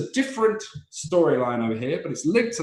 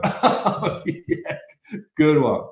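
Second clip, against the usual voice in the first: appreciative audience; much slower than usual. Retold or imitated. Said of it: "what makes us go".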